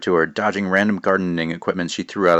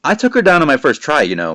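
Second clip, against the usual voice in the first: smug; 6 semitones higher, 6 dB louder than usual. Acted. Boastful heroine.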